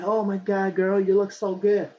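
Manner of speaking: half-hearted girl impression. Friend compliments her at a party, half-hearted girl impression. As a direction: gush like a girlfriend, lightly imitated. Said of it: "I can't do a girl impression".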